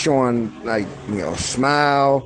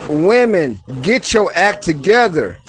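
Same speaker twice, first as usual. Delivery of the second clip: calm, loving version of the command; with love; 3 semitones higher than usual. Shown as a demonstration. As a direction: say it kindly after the heat. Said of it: "but then do the love".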